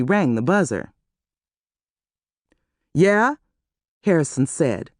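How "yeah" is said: out of breath. A narrator's reading. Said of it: "sounding like he was out of breath".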